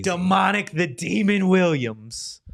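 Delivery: slow, drawn-out ring-name introduction; playful hint of a ring announcer; mock fight announcer. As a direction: announce it like a fighter's nickname, taking your time.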